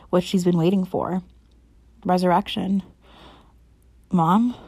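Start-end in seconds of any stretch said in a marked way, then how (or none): 4.1-4.5 raspy whisper. Acted. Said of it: "a hoarse whisper".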